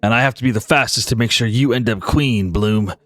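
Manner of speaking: low-pitched loyal sidekick; devoted buffalo. Acted. Buffalo promising to race hard for Bloom, low and devoted. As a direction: reassure your queen in a low beast voice.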